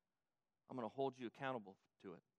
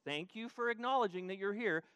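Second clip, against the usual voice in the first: rising rebuke; 4 semitones higher, 7 dB louder than usual. Acted. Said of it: "But now he includes".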